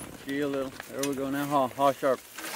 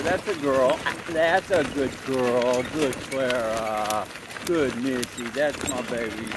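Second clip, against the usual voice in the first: slow, drawn-out praise for the horse; 4 dB louder, slower than usual. Real, not acted. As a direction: reward her gently. Praising horse after trot.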